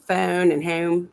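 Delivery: "phone" and "home" with fronted long vowels; Philly inflection. Retold or imitated. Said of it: "you get the inflections like that".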